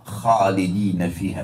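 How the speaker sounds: "khalidina" with a raspy kha from the throat; Arabic kha. Shown as a demonstration. Teacher to congregation, demonstrating throaty kha. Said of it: "Beda dengan kha".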